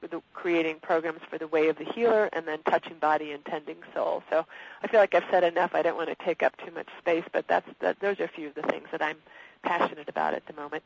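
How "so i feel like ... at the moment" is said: croaky voice from a cold; hoarse, croaky speaking voice. Real, not acted. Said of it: "I apologize for the croaky voice. I've got a cold".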